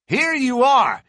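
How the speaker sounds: loud, high excited cry; cried out. A narrator's reading. Lawyer bursting in with the news, excited cry. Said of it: "he cried".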